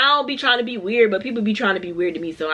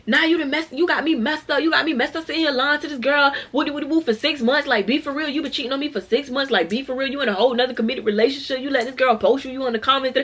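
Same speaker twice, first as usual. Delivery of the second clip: going off; 5 semitones higher than usual. Retold or imitated. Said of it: "She was going stupid".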